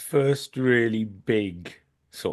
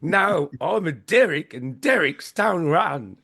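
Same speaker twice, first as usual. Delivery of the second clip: slow, higher imitation New Zealand accent; shonky Kiwi accent; 6 semitones higher, slower than usual. Podcaster quoting Bad Taste's hero, slow mock Kiwi accent. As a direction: do a hammy, badly faked Kiwi film hero. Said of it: "Sorry about the shonky Kiwi accent".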